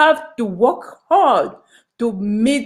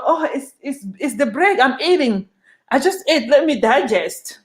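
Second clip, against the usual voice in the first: higher, lightly imitated idle worker; lazy worker excuse; 4 semitones higher than usual. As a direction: toss off the excuse like you can't be bothered. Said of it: "This is how they do in my country".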